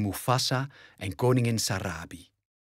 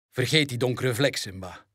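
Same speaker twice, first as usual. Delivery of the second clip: stern father. Acted. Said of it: "zegt Mufasa streng".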